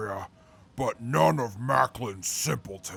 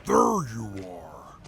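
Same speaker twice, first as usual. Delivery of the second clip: calling out; 4 semitones lower, slower than usual. Real, not acted. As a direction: announce yourself as you walk in. Calls out on arrival.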